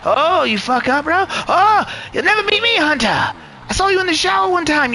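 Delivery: put-on high, butchered Australian-English accent; mock Australian-English accent. Taunting rival Hunter for laughs, high mock Australian accent. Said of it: "me butchering a fucking Australian or English accent".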